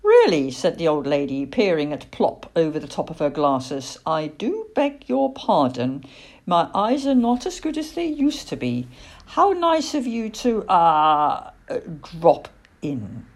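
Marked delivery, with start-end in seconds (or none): 0.0-0.5 high, loud questioning exclamation; surprised old lady. Acted. Old lady surprised by talking owl. 4.0-13.3 lightly voiced genteel old lady; courteous elderly-lady voice; polite old lady, hesitant.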